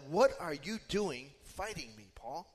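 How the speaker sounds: lightly voiced confronting God, dropping off on the name; direct confrontation. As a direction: retell a mild divine challenge to Paul. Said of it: "God confronted him directly".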